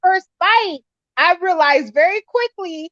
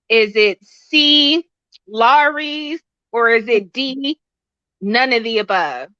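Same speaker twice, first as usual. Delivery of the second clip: quiz host reading options; 3 semitones lower, slower than usual. Acted. Quiz question to the guest.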